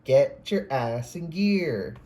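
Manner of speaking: slow, loud, stern command; specific intonation. Retold or imitated. Reader imitates a spirit guide's voice, slow and emphatic. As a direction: stretch each word out and land hard on gear. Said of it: "with that specific intonation".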